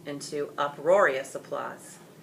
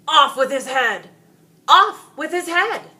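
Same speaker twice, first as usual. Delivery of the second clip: loud, high chanting demand; a mob chanting for the dragon's head; crowd clamoring; 10 semitones higher, 12 dB louder than usual. Acted. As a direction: rant it like an angry mob. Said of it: "loud ranting as they clamored".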